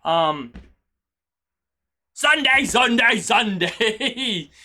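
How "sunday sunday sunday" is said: hype announcer. Pretend. Streamer suddenly remembering Sunday's plans, loud mock-hype shout. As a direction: belt it out like an event ad, stretching the last one.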